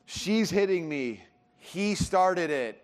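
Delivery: put-on slow, whiny child complaint; mock the bickering kids, drawn out; slow sing-song tattling kid; whiny kid accusation. Kids accusing each other in van.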